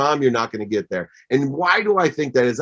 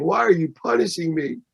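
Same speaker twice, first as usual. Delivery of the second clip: put-on rising pleading child's questions; retold tearful three-year-old pleading; crying child, retold; 7 semitones higher than usual. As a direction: plead higher and higher like a small child. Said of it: "I looked at her crying".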